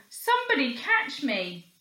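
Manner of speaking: put-on boy begging someone to catch him; pleading cry. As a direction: beg to be caught. Boy screaming for help.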